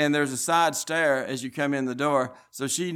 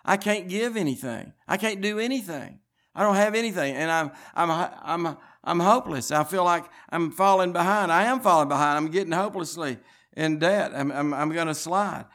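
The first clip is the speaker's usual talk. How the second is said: retold crying; 4 semitones higher than usual. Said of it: "And she'd cry like that".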